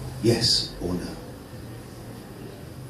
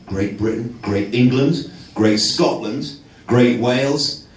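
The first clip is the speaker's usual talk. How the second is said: mock solemn speech.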